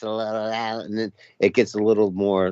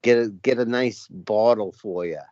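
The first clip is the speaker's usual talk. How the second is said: Boston accent. Shown as a demonstration. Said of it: "The Boston accent is sort of like".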